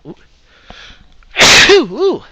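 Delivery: loud sneeze, then a high startled ooh; sudden sneeze. Real, not acted. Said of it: "Sorry about the sneeze there".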